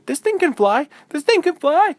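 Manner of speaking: high, loud thrilled cry; amazed delight. Acted. Izzy realizing her pillow flies, high thrilled cry. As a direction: shout the discovery with glee. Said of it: "Izzy finally said".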